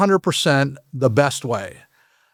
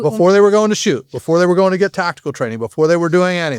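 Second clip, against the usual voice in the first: emphatic; 3 semitones higher, faster than usual. Real, not acted. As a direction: stress the point with growing speed. Emphatic repeat, rising excitement.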